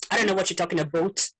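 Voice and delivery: put-on quick joking Canadian accent, "about" as "aboot"; playful Canadian-accent imitation; mock Canadian accent. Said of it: "Canadian accent is as similar as Americans".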